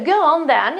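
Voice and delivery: high, loud, emphatic acceptance; punchy 'go on then'. Shown as a demonstration. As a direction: say yes with emphasis, pitch up. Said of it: "this is more emphatic".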